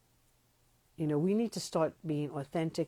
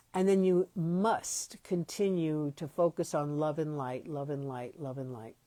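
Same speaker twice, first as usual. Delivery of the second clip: mocking mantra. Mocking love-and-light mantra.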